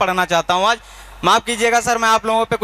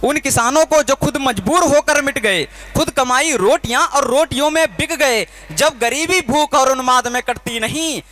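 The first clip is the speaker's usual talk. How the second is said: poem declamation. Acted. Poet reciting his revolutionary poem to the crowd, impassioned declamation.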